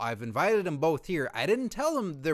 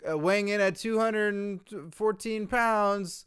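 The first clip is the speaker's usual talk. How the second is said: slow, raised ring-announcer intro; mock wrestling introduction; 4 semitones higher than usual. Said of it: "say, Tony Chimel or Lillian Garcia".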